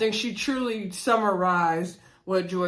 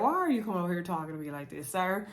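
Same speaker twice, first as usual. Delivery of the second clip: indignant; 6 dB quieter, faster than usual. Retold or imitated. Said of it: "Raina in her confession was like".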